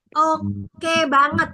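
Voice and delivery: slow, stretched "oke banget"; intonasi power. Shown as a demonstration. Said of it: "intonasi mengajak sama intonasi power". ("oke banget" dipanjangkan penuh tenaga)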